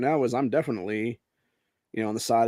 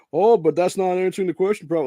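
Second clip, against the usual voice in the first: whiny reporter; 7 semitones higher, 7 dB louder than usual. Pretend. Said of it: "he or she went into it and be like".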